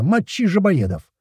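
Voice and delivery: high, slow battle yell; slow high-pitched war cry. A narrator's reading. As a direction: roar it at the enemy, stretched out. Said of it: "орёт Котлета".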